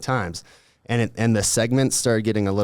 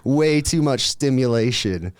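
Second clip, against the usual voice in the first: bugging out; 6 semitones higher, 3 dB louder than usual. Retold or imitated. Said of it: "I'm, like, bugging out".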